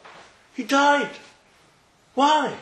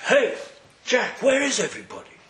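breezy greeting; 5 semitones higher than usual. Retold or imitated. Esav bursts in, retold scene.

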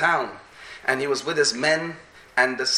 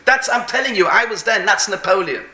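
raised, higher-pitched insistence; insistent; 4 semitones higher, 4 dB louder than usual. Retold or imitated. Soldier insisting to laughing comrades, insistent. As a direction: insist over everyone's laughter.

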